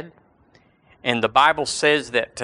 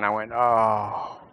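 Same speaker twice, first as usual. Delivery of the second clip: groan; 3 semitones lower, 4 dB quieter, slower than usual. Retold or imitated. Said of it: "I groan".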